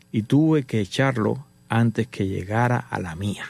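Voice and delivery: "tuve que echarlo" drawn out slowly, then "a la mía" low; slow, weighty punchline on "a la mía"; dramatic slow delivery. Retold or imitated. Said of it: "Hago una pausa".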